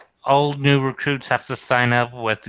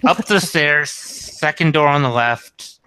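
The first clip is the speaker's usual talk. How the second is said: raised voice calling upstairs; 4 semitones higher than usual. Acted. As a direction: call it out across the room. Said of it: "yell to the new guy".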